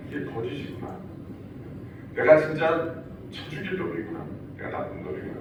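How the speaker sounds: hushed, broken self-blame; whispered self-reproach. Retold or imitated. Peter blaming himself before weeping, soft remorse. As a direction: murmur it as a guilty confession. 그래서 나가서 우는 거예요.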